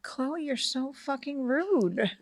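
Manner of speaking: high, slow retold scolding; mock scandalized. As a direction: draw it out, appalled at your child. Retold scolding of her child.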